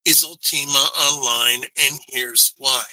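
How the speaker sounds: tinny mic sound; tin can phone. Real, not acted. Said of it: "you sound like you're talking into a tin can".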